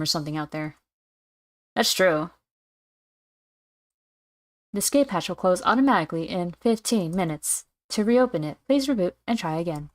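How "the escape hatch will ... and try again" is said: robotic system message; automated computer voice. Acted. Hatch system giving reopening instructions, automated computer voice. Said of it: "really good automated computer voice".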